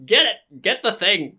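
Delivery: high-pitched comic panic; panicked pleading. Acted. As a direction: beg someone else to deal with it. Character backs away from spider.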